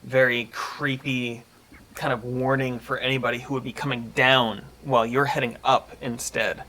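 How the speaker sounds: measured storytelling narration; game master's scene setting. Acted. Game master describes a creepy passageway to the players, measured narration. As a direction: describe the scene evenly, pausing between phrases.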